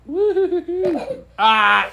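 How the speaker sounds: high whooping laugh, loud; real laughter. Real, not acted. Dad breaking up laughing at his son's interruption, loud whoops. Dad cracks up at kid's toot.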